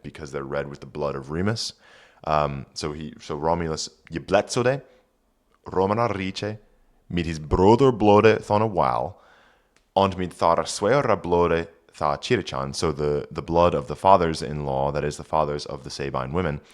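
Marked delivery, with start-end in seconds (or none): 4.1-12.7 put-on reading Old English aloud; careful Old English pronunciation. Shown as a demonstration. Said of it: "reads Old English text".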